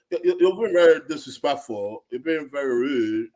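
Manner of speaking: mocking imitation of a gutter British accent. Imitating Simon telling someone off, in a mock gutter British accent. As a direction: put on a rough London British accent, scolding. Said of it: "he's like a gutter British accent".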